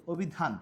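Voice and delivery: অভিধান beginning on a rounded "o"; অভিধান with ও in place of অ; closed initial O. Shown as a demonstration. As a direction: pronounce অভিধান as "obhidhan". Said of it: "ও দিয়ে".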